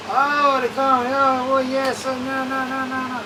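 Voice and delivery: lightly hammed-up wail; mock crying locals. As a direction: imitate people moaning online. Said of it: "Everybody start crying".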